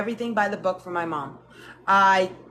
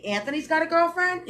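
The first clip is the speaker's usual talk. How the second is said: raised, surprised question; mock shocked grandma again; grandma mixing up names, puzzled and surprised; grandma asking; 8 semitones higher than usual. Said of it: "And she's like".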